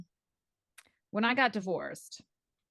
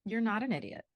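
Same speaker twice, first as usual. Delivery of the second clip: reassuring friend. Retold or imitated. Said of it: "He's like".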